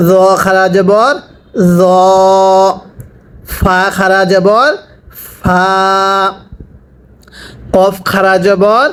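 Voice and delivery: measured chant on a level note, rising at each phrase end; sing-song recitation with drawn-out syllables; Quran spelling drill. Shown as a demonstration. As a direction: lead the class, then hold the syllable long.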